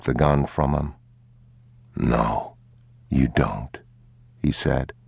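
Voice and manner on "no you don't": low, restrained correction; grave, lowered father's voice. Acted. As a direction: say it low to a frightened child. Father answers in story.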